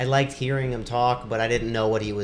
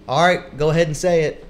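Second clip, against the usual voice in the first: lightly imitated host, higher and louder; radio host; 6 semitones higher, 8 dB louder than usual. Imitating host prompting debt-free caller, hearty radio voice.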